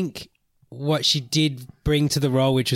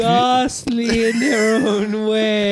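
slow, high, loud proclamation; town crier; 7 semitones higher, 4 dB louder, slower than usual. Acted. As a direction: declare it grandly.

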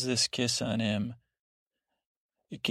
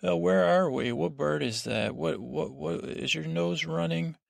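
higher, needling questions to get on his nerves; a playful annoying voice, pitched up; annoying pestering; 5 semitones higher than usual. Retold or imitated. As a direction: pester him like a nagging little brother. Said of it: "He's trying to be a little annoying".

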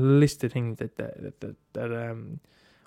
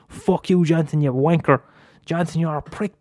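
mock comeback; 4 semitones higher, 4 dB louder than usual. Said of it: "come back with a right smart bollock answer".

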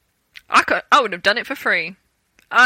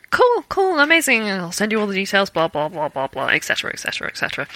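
playing it cool; faster than usual. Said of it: "I was playing it really cool".

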